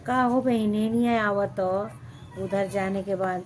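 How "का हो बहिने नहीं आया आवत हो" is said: higher, louder, sing-song Bhojpuri gossip voice; mimicking sugary neighbour woman. Neighbour woman fake-sweetly greeting the vlogger, sing-song mock voice. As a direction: put on a fake-sweet village auntie greeting. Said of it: "ऐसे बोलते हैं".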